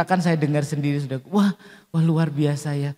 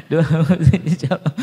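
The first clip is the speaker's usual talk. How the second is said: laughing through the words, louder; 5 dB louder than usual. Real, not acted. Preacher repeats the blessing to the congregation, laughing. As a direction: say it while laughing.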